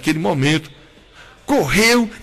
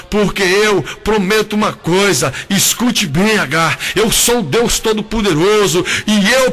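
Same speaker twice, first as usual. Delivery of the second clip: voice of God; 2 semitones higher than usual. Retold or imitated. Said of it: "a voz disse a Agar".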